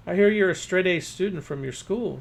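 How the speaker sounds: put-on bright, eager neighbor girl; Mary Jo's voice. A narrator's reading. Mary Jo questions Brill.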